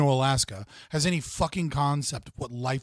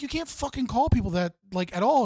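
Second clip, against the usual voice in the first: a higher, firm telling-off; mock scolding; 8 semitones higher than usual. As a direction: play the buddy setting him straight. Retelling someone scolding the guy.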